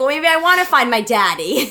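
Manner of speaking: put-on loud screaming. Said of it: "I was, like, screaming into the phone".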